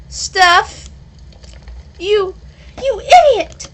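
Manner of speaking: a high, loud scolding yell; angry yell. Acted. Relieved friend yelling at the one who just woke up, furious. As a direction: explode at the friend.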